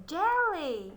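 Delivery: Jelly blended quickly into one word; said fast. Shown as a demonstration.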